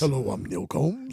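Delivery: slow, drawn-out radio announcer impression; Neil Combs radio voice. Host mimicking a guest's on-air introduction, slow radio voice. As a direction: put on a smooth radio host's introduction. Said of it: "had that radio voice".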